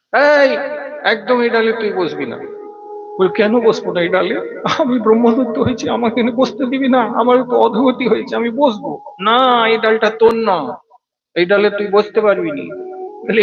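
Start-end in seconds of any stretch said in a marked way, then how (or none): 0.1-2.4 warning shout. Acted. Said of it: "বাকিরা চিৎকার করে বলছেন". 3.4-12.8 indignant ghost. Acted. New ghost argues for branch.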